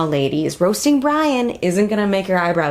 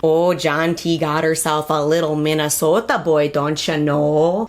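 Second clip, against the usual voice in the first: put-on Minnesota accent; 2 semitones lower than usual. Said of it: "gotta work on my Minnesota accent".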